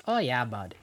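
understated Canadian accent; real-life Canadian. Shown as a demonstration. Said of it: "In real life, it's".

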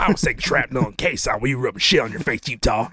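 low, quick veteran-partner impression; Gary Busey. Putting Utah in his place, Gary Busey impression. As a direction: rattle off a war boast, pitched low. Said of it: "I should just do the Gary Busey lines".

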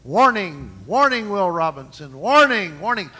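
lightly imitated robot alarm voice; a hint of the Lost in Space robot warning; old rusty robot. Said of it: "the old robot on Lost in Space".

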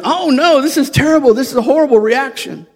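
mock panic. Doctor panicking.

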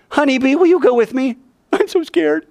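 high, whiny frightened plea; hammed-up cowardly general; mock scared. Barak begging Deborah to come, mock scared. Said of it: "So Lightning says".

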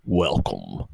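slow, booming hammed-up host welcome; mock show host. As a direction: drag out the welcome like a cheesy announcer.

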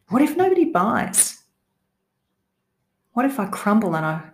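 anxious, rising worried what-ifs; nervous cat. Shown as a demonstration. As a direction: voice your fearful inner doubts. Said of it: "added some emphasis and intonation to make it sound just like that scaredy cat voice".

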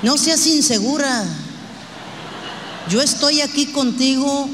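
husband calling his wife insecure; mock husband. Husband brushing off his jealous wife, in a mildly gruff mock voice. Husband justifies liking photos.

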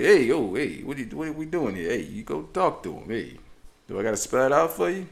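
exasperated mock Italian mom. Daughter nags dad to go, exasperated Italian mom impression. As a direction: badger him like an Italian mom. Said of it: "it almost felt like an Italian mom".

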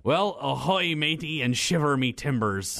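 lightly voiced pirate greeting; a hint of a hearty pirate; pirate talk.

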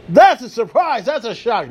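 mock shock at an obvious draft pick; deadpan sarcasm. Real, not acted. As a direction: fake amazement, then dry.

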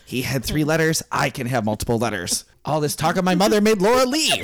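lightly voiced, self-justifying author; a hint of a huffy famous writer; George. Author defending his many initials, lightly put-on character voice. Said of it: "I'm George".

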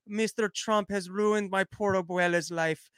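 slow, put-on mocking voice; mocking AOC. Host mocking a politician's complaint: slow, put-on whine. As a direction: drag it out like a whiny politician. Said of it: "A O C was complaining that".

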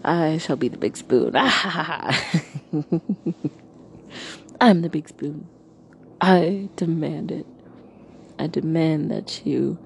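lightly hammed-up tyrant voice; booming demon lord. Playfully demanding big spoon.

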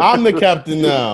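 movie captain quote. Retold or imitated. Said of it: "I'm your captain".

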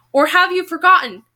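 fury tinged with sadness. A narrator's reading. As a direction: press the question, hurt beneath the anger. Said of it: "the fury now tinged with something much sadder".

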